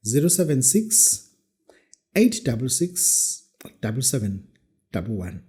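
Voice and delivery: slow, deliberate digits; slow school dictation. Shown as a demonstration. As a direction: dictate each digit for writing. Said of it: "I repeat the number slowly".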